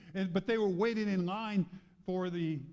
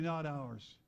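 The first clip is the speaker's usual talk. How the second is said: usual speaking voice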